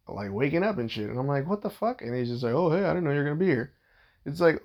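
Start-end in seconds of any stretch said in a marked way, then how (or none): 1.5-2.0 higher-pitched mock-bewildered exclamation; retold startled disbelief. Husband finding his father-in-law coming out of the kid's room, startled. 2.5-3.7 quick, higher, offhand excuse; imitated casual father-in-law. Father-in-law caught in the house, imitated as casual.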